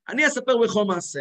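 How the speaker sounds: grandfather's W-for-L in "לך"; imitated missing L. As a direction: imitate him saying "לך" with a W at the start. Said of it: "היה לו ומד". (חיקוי סבא, "לך" עם וו במקום למד)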